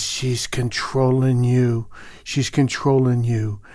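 slow, understated accusation; retold anger. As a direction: imitate an angry father, slowly insisting. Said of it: "and very angry".

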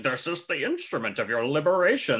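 a light, understated take on Bane's voice; lightly voiced Bane impression. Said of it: "Like, the voice, it's like".

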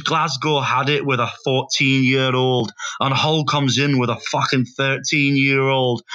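deliberate, put-on Scottish accent; imitated Scottish storytelling; attempted Scottish accent. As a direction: lay it out slowly in mock Scottish. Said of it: "He goes".

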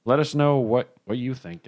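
talking through a burp; words pushed out around a burp. Real, not acted. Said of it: "this one's making me burp".

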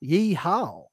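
"Yeehaw." said lightly and almost offhand, falling at the end; a laid-back, understated Austin "Yeehaw.". Shown as a demonstration. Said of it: "they say it like this".

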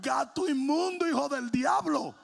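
loud, high comic outburst; mock rebuke. Startled preacher rebukes a cat, loud mock rebuke. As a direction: cry out as if cursing a demon. Scolding the thing that scared him.

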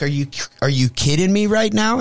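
high-pitched mock outrage; retold incredulous protest. Bitten man to the biter, mock incredulous. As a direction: replay disbelief, pitched well up. Retelling disbelief after being bitten.

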